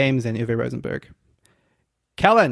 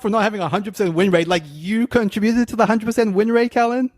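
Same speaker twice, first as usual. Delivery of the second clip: higher-pitched mock-offended comeback; protesting in a raised pitch; indignant protest; 6 semitones higher than usual. Real, not acted. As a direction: throw the accusation back, pitched up. Teasing protest at being called out.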